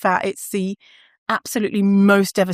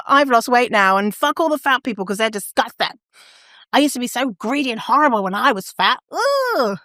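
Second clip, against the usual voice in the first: mildly hammed-up sneering at fat people; mocking a smug convert, ending on a high "ugh"; mock disgust; 3 semitones higher than usual. Celeb who lost weight disowning fat people, mock disgust.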